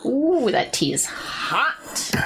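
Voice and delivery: burned mouth. Real, not acted. Burned by hot tea.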